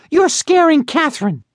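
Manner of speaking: high, bratty little sister. Acted. Sister voiced in story.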